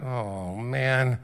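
low, drawn-out groan of a letdown; mock-glum "oh, man"; disappointed kids. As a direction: imitate let-down teenagers, low and deflated. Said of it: "So the kids are like".

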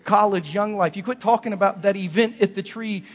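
loud, high exhortation; altar-call preacher pleading loudly; preaching at full force. Acted. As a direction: press the congregation to commit.

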